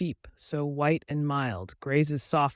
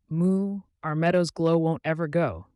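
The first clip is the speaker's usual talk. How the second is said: higher, louder lightly voiced cow; a mild cow adding its line; gentle cow; 5 semitones higher, 7 dB louder than usual. Cow adds a gentle line to the sheep. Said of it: "the cow added gently".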